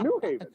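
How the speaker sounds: "New Haven" imitated with New stressed; "New Haven", first word leading. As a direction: mimic "New Haven" with the weight on New. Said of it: "putting the emphasis on the new".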